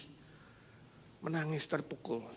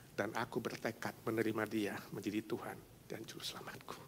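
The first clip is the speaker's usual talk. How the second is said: tender confession. Acted. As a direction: confide it gently.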